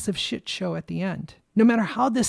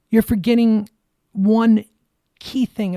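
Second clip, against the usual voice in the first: loud emphatic; 2 semitones higher, 5 dB louder than usual. Real, not acted. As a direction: drive it home to them. Angry rant at politicians.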